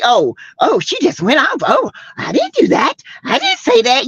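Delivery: high whiny fake-innocent voice; mocking the denier. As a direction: play innocent in a mock high whine.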